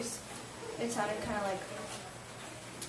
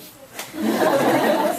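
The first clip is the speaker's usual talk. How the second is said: bright burst of laughter, louder; 6 semitones higher, 13 dB louder than usual. Real, not acted. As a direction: laugh at yourself. Laughs after admitting her vote.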